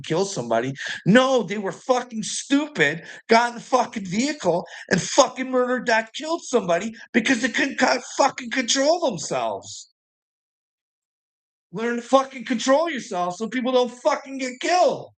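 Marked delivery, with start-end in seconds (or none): 1.1-9.9 high-pitched, exasperated outrage; real angry rant. Real, not acted. Ranting about drunk drivers who killed somebody, angry. 11.7-15.1 high, strained outraged yelling; real angry shout. Real, not acted. Scolding drunk drivers who get people killed, furious shout.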